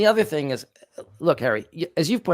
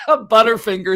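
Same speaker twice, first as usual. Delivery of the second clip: lightly voiced careless killer, higher and louder; flippant; 6 semitones higher, 7 dB louder than usual. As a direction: toss it off like nothing happened. Mock stabber shrugging it off.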